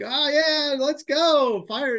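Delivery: high, loud hype-man shout; hyped-up imitation. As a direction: fire him up like a coach. Imitating Andy hyping him up.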